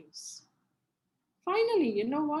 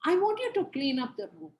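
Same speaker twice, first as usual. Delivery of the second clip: calm request; faster than usual. Shown as a demonstration. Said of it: "No, you say".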